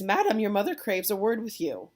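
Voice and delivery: a hint of a summoning servant; calling nurse. Nurse to Juliet, her mother wants a word, lightly acted summons.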